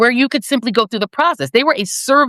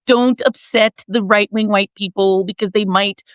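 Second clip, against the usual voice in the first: lightly mocking, slow pleading insider; a hint of a timid, begging party official; Democratic establishment voice; slower than usual. Mocking establishment Democrats pleading not to upset voters, timid plea. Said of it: "This is my voice of the Democratic establishment".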